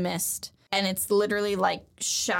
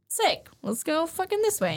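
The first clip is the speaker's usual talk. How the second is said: eager pick; 8 semitones higher than usual. Retold or imitated. Luffy picks battle spot.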